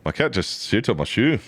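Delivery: Scottish accent. Shown as a demonstration. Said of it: "Can you do a Scottish accent".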